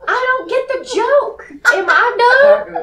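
laughing, high and loud; giggly confused question. Real, not acted. Laughing at not getting joke.

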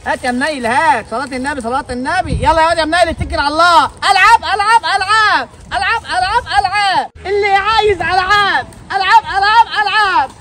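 lightly voiced mother hawking her toys; a hint of a cheerful mom calling buyers in; mother selling toys.

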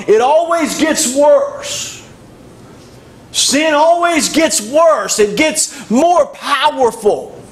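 high, impassioned preacher's pitch; emphatic preaching. Real, not acted. Preacher warning the congregation that sin always gets worse, emphatic preaching.

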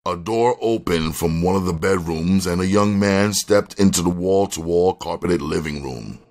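plain reading voice

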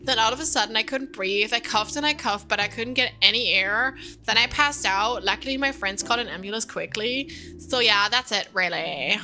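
put-on young kid telling a story; eager little kid voice; child patient voice.

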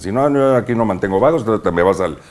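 imitando a un papá que amenaza, más agudo; mock parental threat. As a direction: amenaza de papá, medio actuada. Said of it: "los papás es como que te amenazan". (regaño paterno imitado, con tono más alto)

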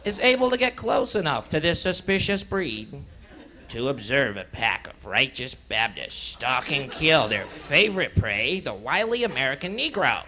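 lightly voiced wildlife show host; nature documentary. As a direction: narrate like an old nature show. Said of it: "This is Marlon Perkins".

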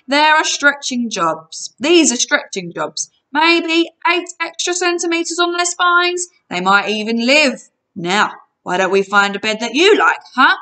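breezy sales talk from a villain; giant salesman character. Acted. Giant explains stretching to captive's friend, salesman's patter.

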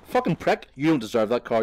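sneering, loud curse at the other driver; angry outburst. Real, not acted. Gamer cursing a stranger's car, pitched high and loud. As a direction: spit it out in disgust.

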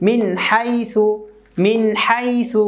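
"মিন হাই সু" with the n clear and not hummed; no ghunnah. Shown as a demonstration. Teacher modelling for learners, "মিন হাই সু" clear without ghunnah. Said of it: "গুণনা হলো না".

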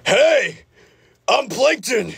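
high, put-on cartoon voice; Plankton. Answering a viewer's impression request, high cartoon voice. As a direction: pitch it way up as a cartoon character. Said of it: "Can you do a Plankton impression?".

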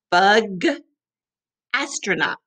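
"Bug, astronaut" said clearly for the class; model words. Shown as a demonstration. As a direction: say it for kids to repeat. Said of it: "Can you say it?".

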